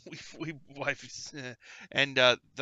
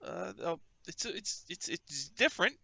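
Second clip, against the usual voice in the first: critic character; 3 semitones higher than usual. Acted. Reviewer character voiced by GM.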